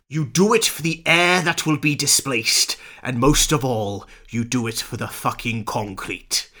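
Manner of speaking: a touch of overwrought poetic reading; lightly hammed-up film monologue; dramatic recitation. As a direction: recite it with mock gravity. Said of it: "a quote that I would like to recite to you".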